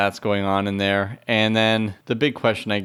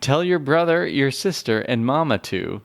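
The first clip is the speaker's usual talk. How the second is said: English teacher voice; 4 semitones higher than usual. Shown as a demonstration. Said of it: "English teacher voice".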